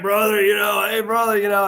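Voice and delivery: a light Tommy Wildfire Rich impression; imitating Tommy. To Eric on the phone, a hint of his wrestler growl. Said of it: "and he was like".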